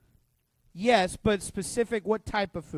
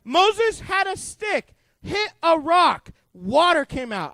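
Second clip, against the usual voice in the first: emphatic; 4 semitones higher, 5 dB louder, slower than usual. Real, not acted. Emphatic retelling of miracle.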